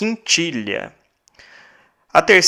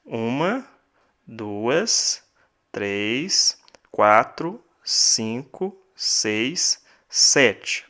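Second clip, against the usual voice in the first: counting syllables; 4 dB quieter, much slower than usual. Shown as a demonstration. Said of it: "nós temos aqui sete sílabas poéticas".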